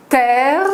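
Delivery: « terre » plus haut et plus fort, R rapide; R double accéléré. Shown as a demonstration. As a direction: lancer « terre » avec une petite accélération sur le R. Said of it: "une petite accélération sur le R". (« terre » démontré fort, avec un R rapide)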